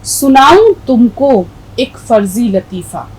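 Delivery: slow recited verse line; poem recitation. Shown as a demonstration. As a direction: recite it slowly like poetry. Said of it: "پھر سے پڑھ دیتی ہوں". (نظم کی آہستہ قرات)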